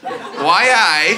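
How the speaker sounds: tentative attempt at a Geordie accent. Shown as a demonstration. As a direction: reluctantly try a Geordie catchphrase. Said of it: "give us a bit of a Geordie accent".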